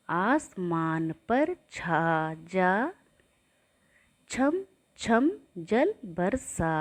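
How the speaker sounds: put-on slow sing-song poem for children; poem recital. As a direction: chant each line slowly for kids to repeat. (बच्चों के लिए धीमी लय में कविता पाठ)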